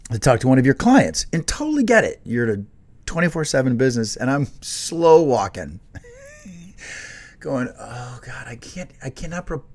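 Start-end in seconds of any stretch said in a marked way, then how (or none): 5.9-9.6 laughing. Retold or imitated. Laughing while slow walking.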